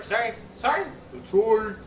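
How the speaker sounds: quick high put-on apologies; character voices. Shown as a demonstration. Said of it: "I can do characters".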